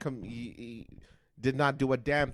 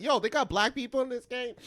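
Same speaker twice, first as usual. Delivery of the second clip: high, surprised imitation; surprised brother; 10 semitones higher, 4 dB louder than usual. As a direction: ask in mock disbelief. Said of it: "But it's like".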